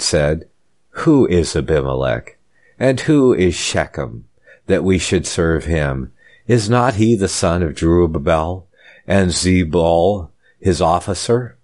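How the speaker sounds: measured reading with pauses between phrases; formal, deliberate Bible reading; scripture reading. Real, not acted. Preacher reading Abimelech's story to listeners, formal scripture reading.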